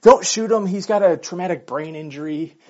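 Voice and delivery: mock pleading yell of the wife; retold yell. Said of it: "his wife is yelling".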